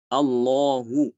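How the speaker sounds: Allahu slow, the final u only hinted; raum ending. Shown as a demonstration. Teacher demonstrating raum on Allahu. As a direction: let Allahu fade to a trace of u. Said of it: "Dibacanya ketika wakaf".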